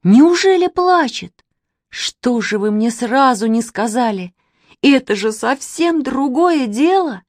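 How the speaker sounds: high, stretched, amazed exclamations; astonished, voice leaping up; excited cry. A narrator's reading. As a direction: exclaim with sudden hope. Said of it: "закричал Костя Реутов".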